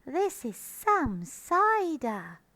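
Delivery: put-on high, slow, awestruck young fox; gasped amazement. A narrator's reading. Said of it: "gasped the smallest fox".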